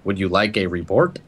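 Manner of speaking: a lightly voiced robotic computer; tinny machine voice. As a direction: read it like a tinny diagnostic machine. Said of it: "in its, like, tinny voice".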